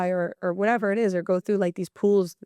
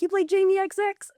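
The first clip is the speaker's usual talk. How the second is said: mock surprise; 12 semitones higher than usual. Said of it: "they're like".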